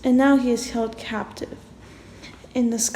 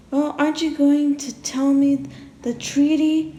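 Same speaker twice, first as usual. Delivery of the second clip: mild yell; 3 semitones higher, 3 dB louder than usual. Acted.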